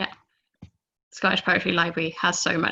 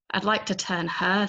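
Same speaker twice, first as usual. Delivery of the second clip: sour remark. Retold or imitated. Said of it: "someone remarks sourly".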